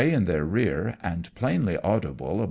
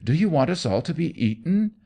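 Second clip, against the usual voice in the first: higher, fast and urgent; panicked shout; 8 semitones higher, faster than usual. Acted. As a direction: rush it out at the coachman. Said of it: "Anno shouted".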